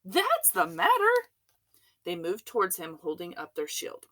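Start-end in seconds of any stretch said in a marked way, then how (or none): 0.0-1.3 higher, louder retort; shout. A narrator's reading. Chief of police answering George, loud retort. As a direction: throw the answer back forcefully. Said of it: "shouted the chief of police".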